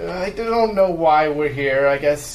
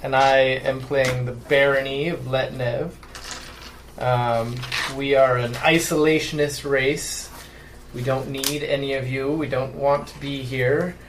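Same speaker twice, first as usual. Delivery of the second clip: put-on German accent. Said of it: "a German accent of some sort".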